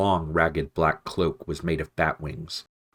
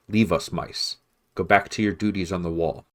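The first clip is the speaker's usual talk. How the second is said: curt command. Acted. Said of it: "rapped out a curt command".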